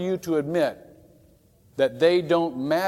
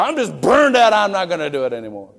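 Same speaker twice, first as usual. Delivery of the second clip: mock burned-out complainer; 3 semitones higher, 8 dB louder than usual. Preacher mocking the burned-out phrase, whiny then quick. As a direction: whine it, then toss it off. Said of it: "we love that phrase".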